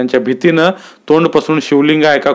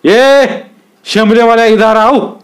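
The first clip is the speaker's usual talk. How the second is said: much higher, loud hail across the road; calling out; 8 semitones higher, 3 dB louder than usual. A narrator's reading. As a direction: bellow to stop the passing boy. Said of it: "दादांनी हळी दिली".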